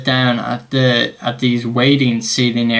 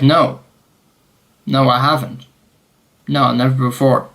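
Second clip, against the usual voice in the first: overdone denial. Retold or imitated. Traveller asked by officer about arrests, overdone denial. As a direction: deny it a little too deliberately. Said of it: "I didn't say it like that".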